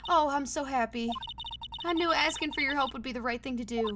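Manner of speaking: gushing put-on Southern-American voice; thrilled wife in a Southern-American accent; delighted Southern-American accent, lightly done. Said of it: "mixture between an American and, like, Southern accent".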